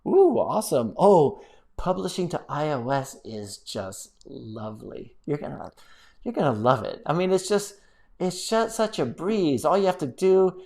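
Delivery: slow, drawn-out mock delight; sarcastic praise. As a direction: gush with dry irony, stretching the praise. Sarcastic praise of iOS publishing.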